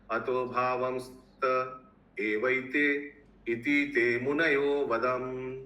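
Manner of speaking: slow, measured chant with long held syllables; Sanskrit verse recitation. Acted. Teacher reciting Sanskrit shlokas to his class, measured chant. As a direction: intone each verse phrase slowly, pausing between.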